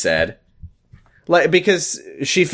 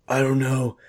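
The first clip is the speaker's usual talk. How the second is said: Ricky cry voice; 3 semitones higher than usual. Acted. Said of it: "we got a Ricky cry voice".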